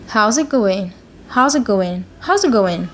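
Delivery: "going" ending on an N sound; casual linked phrase, "going" without its G; dropped G. Shown as a demonstration. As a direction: finish "going" as "goin", no G. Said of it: "We didn't pronounce G".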